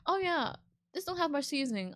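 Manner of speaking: mock snooty guest. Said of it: "be like".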